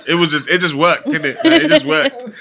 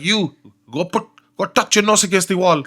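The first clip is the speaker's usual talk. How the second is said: higher-pitched mock order; science teacher imitation; 5 semitones higher, 3 dB louder than usual. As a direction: order a pupil like a strict teacher. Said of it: "My science teacher used to say to me".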